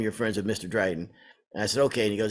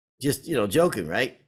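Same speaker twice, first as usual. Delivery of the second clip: normal talking voice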